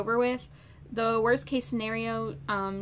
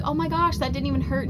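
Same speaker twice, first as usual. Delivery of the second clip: high, louder retold astonishment; amazed relief; 5 semitones higher, 4 dB louder than usual. Patient to doctor after the numbed biopsy, amazed. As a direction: re-enact surprise, pitch jumping up at the start.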